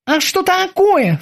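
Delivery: high, slow alarmed question; a worried boatswain asking what's wrong; lightly voiced alarm. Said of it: "встревожился боцман".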